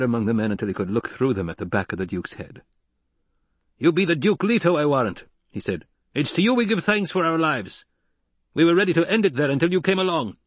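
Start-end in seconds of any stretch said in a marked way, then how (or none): 3.8-5.2 high-pitched rustic desert crewman; tall Dune man. A narrator's reading. Rescued Dune man addresses the Duke, voiced as rough-spoken crewman. 6.1-10.4 high-pitched rustic desert crewman; tall Dune man. A narrator's reading. Rescued Dune man addresses the Duke, voiced as rough-spoken crewman.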